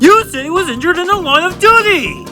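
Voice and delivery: high, fast, outraged outburst; indignant protest. Acted. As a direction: protest in a rising squawk. Chief indignantly challenges the explanation.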